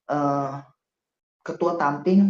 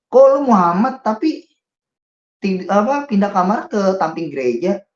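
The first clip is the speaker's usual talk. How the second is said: retold guard's surprise; 7 semitones higher, 7 dB louder than usual. Guard taken aback by his name.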